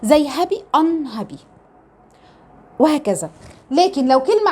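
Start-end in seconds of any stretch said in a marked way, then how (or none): 0.0-1.4 "ان هابي" with a short "uh-n" at the start. Shown as a demonstration. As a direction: say the prefix in "ان هابي" as "un", never "yoo-n". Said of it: "بنطقه دايمًا ان". (نطق "ان" بصوت قصير)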